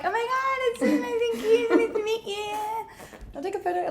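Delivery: high, squealing fake delight through tears; over-bright mock enthusiasm, near tears; mock gushing fan greeting. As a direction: gush as if nothing is wrong, half crying. Mock fan greeting while bullied.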